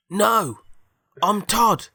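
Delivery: high, loud robot voice; robot character. Acted. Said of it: "And the robot goes".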